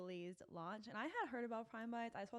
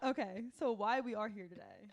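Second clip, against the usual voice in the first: giggly; 7 dB louder than usual. Real, not acted. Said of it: "I don't know why I'm so giggly today".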